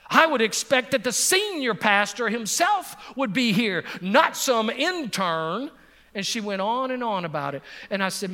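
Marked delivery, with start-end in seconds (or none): 0.1-5.7 put-on indignant old lady. Quoting the indignant elderly lady.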